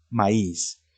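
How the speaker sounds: maíz said slowly as ma-ÍS; maíz with the weight on its second vowel; correct stress. Shown as a demonstration. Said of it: "se pronuncia correctamente".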